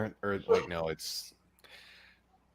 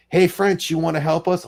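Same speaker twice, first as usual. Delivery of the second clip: louder, higher casual pitch for help; Americans recruiting the French; 3 semitones higher, 4 dB louder than usual. Acted. Americans ask France for help in the war, breezy mock appeal. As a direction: call out a breezy invitation to an ally. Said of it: "we're like".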